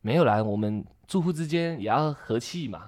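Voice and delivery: meek placating. Retold or imitated. Manager backing down meekly.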